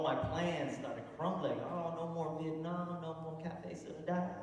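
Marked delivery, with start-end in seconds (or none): 1.7-4.3 slow, soft lament; mock devastated. Comic watching his plans crumble, mock devastated. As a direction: draw out each lost plan in mock grief.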